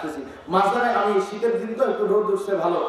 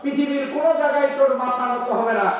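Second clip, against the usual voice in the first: raised-pitch sermon delivery; preaching; 5 semitones higher than usual. Acted. Preacher addressing mankind on bowing the head, preaching. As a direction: preach it out to the crowd.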